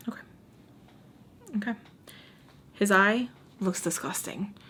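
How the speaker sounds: hushed, disgusted aside; whisper. Real, not acted. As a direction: whisper it like you don't want him to hear. Grossed-out aside about Mister Peach.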